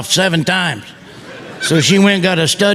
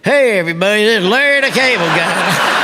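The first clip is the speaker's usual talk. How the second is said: the same folksy voice, barely changed; Larry the Cable Guy voice; 3 semitones higher than usual. Acted. Announcing himself to cruise guests, the same folksy voice. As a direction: greet them like the same good old boy. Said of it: "Same voice".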